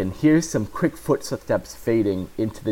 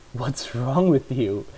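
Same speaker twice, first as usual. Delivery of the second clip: sassy; 2 semitones higher, slower than usual. Acted. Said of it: "Erica says in a sassy manner".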